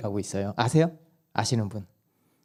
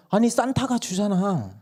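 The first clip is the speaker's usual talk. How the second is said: put-on child arguing; 9 semitones higher than usual. Child argues with mom.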